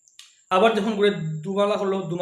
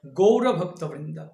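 recited mantra; slower than usual. Shown as a demonstration. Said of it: "পঞ্চতত্ত্ব মহামন্ত্র বলা হচ্ছে".

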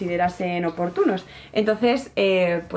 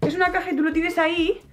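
excited realisation; 7 semitones higher than usual. Real, not acted. Realising it is a box.

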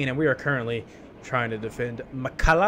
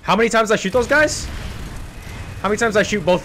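incredulous; 7 semitones higher, 4 dB louder than usual. Real, not acted. Disbelief after dying.

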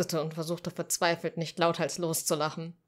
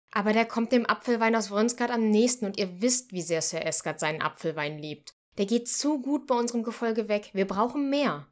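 arguing; 5 semitones higher, 4 dB louder than usual. Acted. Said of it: "argumentierte Silas".

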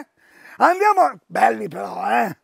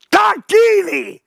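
drawn-out proclamation; 5 semitones higher, 4 dB louder, slower than usual. Acted. Presenter proclaims the brand.

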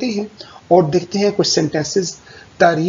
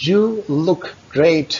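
excited praise; 4 semitones higher, much slower than usual. Shown as a demonstration. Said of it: "आपकी tone जो है ... excited हो".

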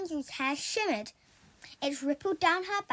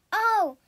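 dreamy sigh; 6 semitones higher, 7 dB louder than usual. A narrator's reading. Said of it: "sighed Rapunzel".

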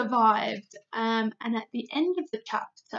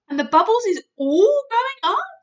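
loud, higher anxious giant question; anxious big friendly giant; worried giant; 11 semitones higher, 11 dB louder than usual. Acted. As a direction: ask with dread. BFG asks in horror.

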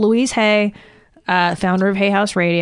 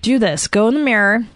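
ordinary talk

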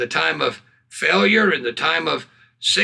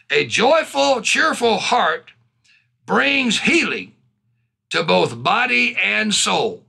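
slow, raised verse reading; preached scripture reading; 5 semitones higher, slower than usual. Acted. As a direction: draw out each phrase with emphasis. Reads a verse aloud.

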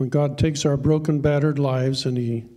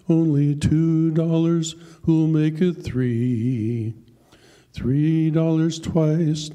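auctioneer calling; 2 semitones higher, slower than usual. Acted. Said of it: "Then he cried".

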